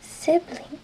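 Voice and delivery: "sibling" said the English way; English word sibling. Shown as a demonstration. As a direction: model "sibling" clearly. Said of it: "se dice".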